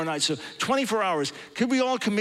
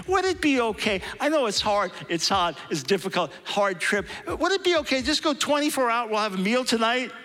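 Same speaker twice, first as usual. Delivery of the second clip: hammed-up tentative pleading, much higher; mock gentle asking; 4 semitones higher than usual. Pastor mimicking his overly careful request to the American team, mock pleading. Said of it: "That's a little different than my approach".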